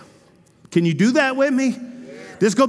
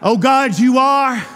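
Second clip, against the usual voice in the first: loud cry of Oh God; fervent cry; 4 dB louder than usual. Acted. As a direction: call out to God with force. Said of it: "it's not just, "Oh God".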